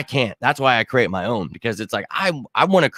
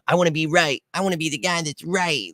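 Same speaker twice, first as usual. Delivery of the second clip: mock whiny voice; 5 semitones higher, 3 dB quieter than usual. Mocking offended critics.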